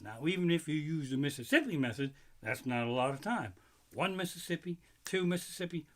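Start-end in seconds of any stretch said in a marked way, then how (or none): 3.9-5.9 two ticks, then shout the last bit; mock launch countdown. Shown as a demonstration. Comic counting the coaster launch, building to a yell.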